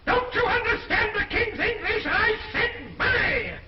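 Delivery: high, loud royal outburst; furious demand. Acted. King roaring at his attendants for money, furious. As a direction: shout it, stretching the final words.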